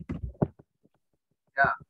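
normal talking voice

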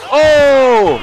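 loud, high startled cry; loud shocked exclamation; surprised shout. Real, not acted. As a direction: yelp at the sudden blow. Exclaiming at a big hit.

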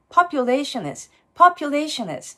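population has with the h of has almost gone; dropped h. Shown as a demonstration. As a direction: weaken has to a light "əz" after population. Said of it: "エイチ八割ぐらい脱落する感じです". (hasのhをほぼ落として)

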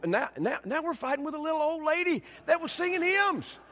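ordinary talk, nothing marked

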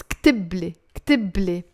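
كتبلي said ktible, no vowel after b; no waw, ktible. Shown as a demonstration. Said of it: "you have to drop the waw".

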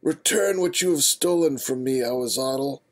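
high, menacing adventurer voice; angry. Acted. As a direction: demand it back, fierce. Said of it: "eyes flashing with anger".

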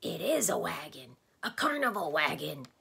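eager agreement. Acted. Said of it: "seconded Tok".

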